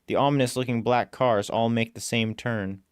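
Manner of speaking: ordinary delivery, nothing marked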